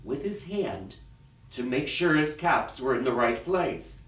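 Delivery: dramatic storyteller with long pauses; story narration. A narrator's reading. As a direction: read it to children, phrase by phrase. Reads a picture story aloud.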